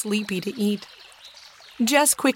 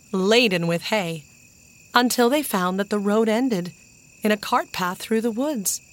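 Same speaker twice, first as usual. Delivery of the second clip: plain reading voice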